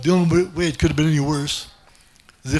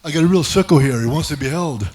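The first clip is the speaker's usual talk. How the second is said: scared masseuse on the phone; 4 dB louder than usual. Retold or imitated. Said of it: "She'd be phoning her pimp".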